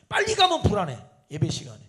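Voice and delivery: put-on a child who learned lateness fretting over being early; mock anxious child. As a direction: squeal it like a fretful kid. Child anxious about arriving early.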